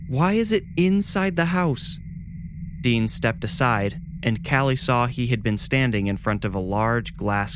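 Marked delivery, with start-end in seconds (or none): 0.1-2.0 alarmed. A narrator's reading. Babysitter alarmed by the rat.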